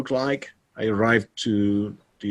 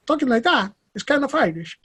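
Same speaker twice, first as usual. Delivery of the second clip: much higher laughing sing-song; Galician lilt; 14 semitones higher than usual. Shown as a demonstration. Guest demoing how Galicians talk, high laughing lilt. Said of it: "the way we talk in Galicia".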